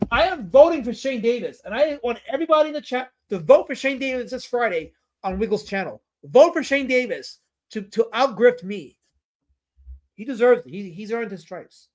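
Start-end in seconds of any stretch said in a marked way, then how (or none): 0.1-9.0 emphatic, higher-pitched campaign plea; rally the whole chat behind your rival; rallying the voters. Pretend. Streamer urges chat to vote for his rival, emphatic campaigning.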